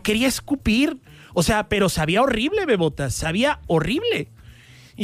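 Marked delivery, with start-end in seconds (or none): none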